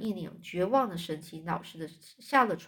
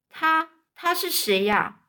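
slow stammering question; 8 semitones higher, 5 dB louder, slower than usual. Acted.

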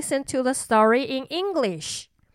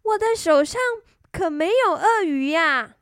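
cartoon princess; 6 semitones higher than usual. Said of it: "她说".

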